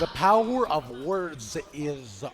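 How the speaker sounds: flat, even robot voice. Real, not acted. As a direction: speak like a robot, evenly. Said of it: "Why do you sound like a robot".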